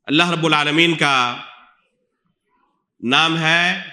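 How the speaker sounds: normal talking voice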